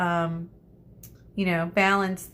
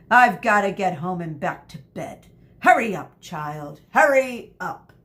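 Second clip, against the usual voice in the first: impatient scolding; 5 dB louder than usual. Acted. Teacher scolding, rushing child.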